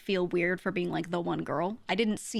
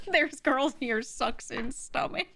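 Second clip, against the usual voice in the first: mock guy voice; 5 semitones higher, slower than usual. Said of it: "put on the Velo voice".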